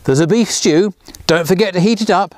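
a hint of a fussy grandma listing chores; mild instructing tone; bossy grandma orders. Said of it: "giving poor Grandpa his orders".

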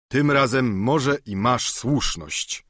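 ordinary delivery

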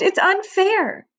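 put-on high, drawn-out childish wail; high-pitched, upset little girl; sobbed protest. A narrator's reading. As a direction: wail the complaint, stretching it out. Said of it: "she sobbed".

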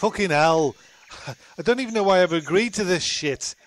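exasperated, cursing his situation; frustrated swearing. Real, not acted. Stuck man cursing at agreeing to the stunt, fed up.

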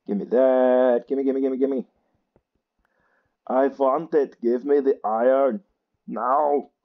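put-on gimme like a greedy child; greedy demand. Grabbing iron in the game, greedy and demanding.

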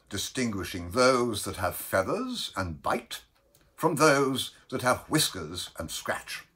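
emphatic, animated lecturer listing each point; declaiming Bellman. Acted. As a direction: address the crew with ringing emphasis.

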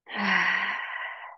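long, easy exhale; audible settling sigh. Real, not acted. Teacher settles class into stillness.

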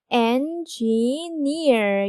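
engineer said slowly in three syllables, neer strongest; engineer, land hard on the final neer; stress on neer. Shown as a demonstration. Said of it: "액센트는 제 삼 음절 near에". (engineer를 천천히, 마지막 음절 neer를 강하게)

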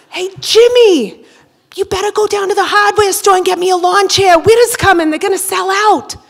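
a neighbor hollering about lawn chairs; Boston local voice. Acted.

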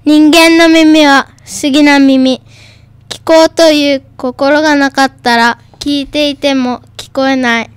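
even, measured school recitation; reading aloud. Shown as a demonstration. Second pupil takes up the textbook poem, reading aloud. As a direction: recite the poem with a pause after each phrase. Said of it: "音読のコーナー".

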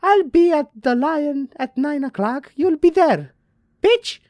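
very high, loud theatrical character; over-the-top high-pitched sign-off; Maggie's letter voice. Acted. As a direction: fire off the letter's ending in a high, loud put-on voice. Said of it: "what's with up with that voice".

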